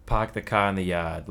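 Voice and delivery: put-on a mild New England accent with dropped R's; a light Boston park the car. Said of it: "they did have accents".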